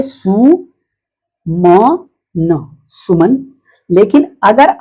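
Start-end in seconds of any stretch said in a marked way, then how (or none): 0.0-3.4 सु, म, न in separate syllables, then सुमन; drawn-out सु, then म and न, joined as सुमन; Hindi-style reading. Shown as a demonstration. Teacher shows how pupils read it, syllable by syllable. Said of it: "ऐसे तो आप पढ़ दिए".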